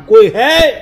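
loud shout into the dark; loud call. Retold or imitated. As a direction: call out loudly for anyone there. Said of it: "મેં જોરથી રાડ પાડી".

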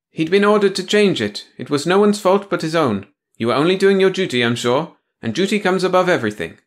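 high prim bureaucrat voice; a prissy officious clerk; prim officious woman. Acted.

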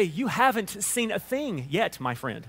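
slow, over-proper non-Alabama phrasing; mock non-Southern speech. Shown as a demonstration. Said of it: "We don't say".

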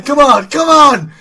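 loud, urgent come on, pitched high; real race-day shouting. Real, not acted. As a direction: yell it at the screen to push the rider. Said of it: "Sorry for the shouting".

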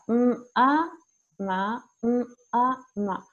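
"Mm" y "a" como sonidos, luego unidos en "ma"; por sílaba. Shown as a demonstration. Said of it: "lo vamos haciendo por sílaba". (juntar "Mm" y "a" en "ma", sin nombres de letras)

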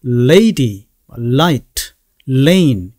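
"lady", "light", "lane" each with a firm tongue-tip L; attach-and-release L. Shown as a demonstration. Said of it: "혀 끝을 붙였다가 확실하게".

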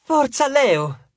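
high, loud, drawn-out fan cheer; high-pitched adoring shout. A narrator's reading. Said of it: "gridò Eco".

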